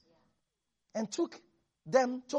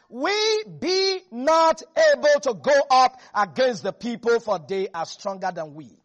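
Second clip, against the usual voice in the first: doubting spy; 6 dB louder than usual. Retold or imitated. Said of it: "the man that went up with him said".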